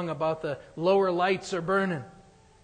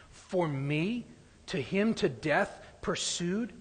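hymn recitation; slower than usual. Acted. Reads Wesley's hymn text aloud.

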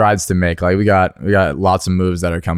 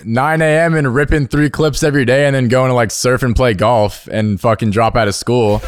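laughing; 3 semitones higher than usual. Real, not acted. Laughing at own lazy life.

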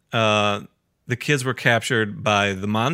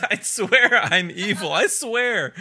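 high-pitched mock insistence; villain protest; 7 semitones higher, slower than usual. Villain swearing he is evil, high insistence. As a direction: plead your wickedness up high.

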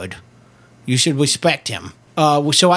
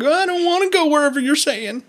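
high squeaky voice; 12 semitones higher than usual. Retold or imitated. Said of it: "I was like".

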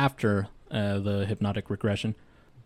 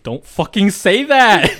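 loud laughing, higher pitch; laughing protest; 9 semitones higher, 11 dB louder, slower than usual. Real, not acted. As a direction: shout it through laughter.

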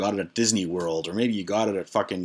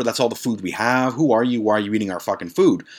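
mock angry yell; 2 semitones higher than usual. Lisa confronting the stranger eating their food: mock angry yell. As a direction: demand answers from the intruder. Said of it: "She said something along the lines of".

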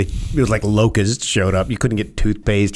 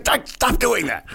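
alarmed plea. Retold or imitated. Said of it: "he's like".

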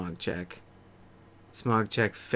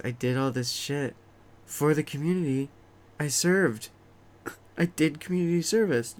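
rising indignant rant; 6 semitones higher than usual. Retold or imitated. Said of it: "I'm like".

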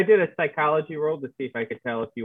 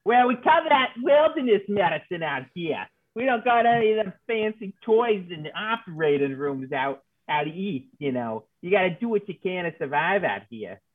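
slightly folksy frontier medic, pitched up at first; lightly voiced frontier medic; 6 semitones higher than usual. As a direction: plainspoken wilderness doctor, lightly put on. Plays frontier medic character.

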